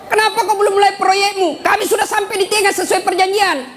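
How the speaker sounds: yelling. Acted. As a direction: shout the complaint across the bridge. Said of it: "Dia teriak".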